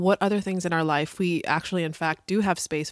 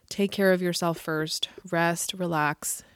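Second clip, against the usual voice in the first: whispering; slower than usual. Real, not acted. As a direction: breathe the words out gently. Soothing self-care advice.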